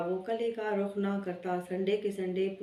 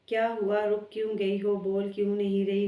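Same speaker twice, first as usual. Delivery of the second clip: a touch louder, anxious questions; worried boyfriend on the phone, a little louder; 3 dB louder than usual. Acted. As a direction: press her gently but urgently for an answer. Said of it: "نیزا فکر سے بولا".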